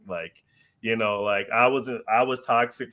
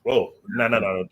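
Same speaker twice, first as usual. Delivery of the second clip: louder, fast, laughing refusal; alarmed protest; 3 semitones higher, 5 dB louder, faster than usual. Retold or imitated. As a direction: laugh off the idea in a rush. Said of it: "I was like".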